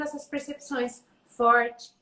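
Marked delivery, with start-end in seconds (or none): 1.3-1.9 loud demo. Shown as a demonstration. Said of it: "essas instruções e ele tendo".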